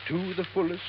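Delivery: measured, solemn reading with pauses; formal will reading. Acted. Lawyer reading the will to waiting heirs, formally. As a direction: read out a legal document, phrase by phrase.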